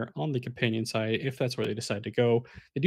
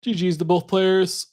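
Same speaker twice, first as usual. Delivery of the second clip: excited; 7 semitones higher, 7 dB louder than usual. Real, not acted. Caster signs off a match.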